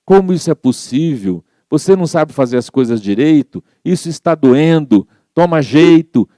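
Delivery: a patient scolding the nurse; irritated scolding. Retold or imitated. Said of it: "irritada, já começou a brigar". (bronca irritada)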